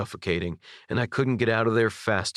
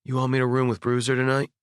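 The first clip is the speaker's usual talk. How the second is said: fast, slurred words; slurred drunk; 3 semitones higher, faster than usual. Acted. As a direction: talk a little drunk. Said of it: "his voice was vaguely slurred".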